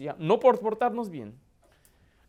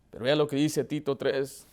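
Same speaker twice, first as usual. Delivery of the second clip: ordinary talk, nothing marked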